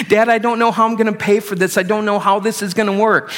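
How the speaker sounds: a hint of a crying daughter, hurried; daughter in tears. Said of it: "she's crying".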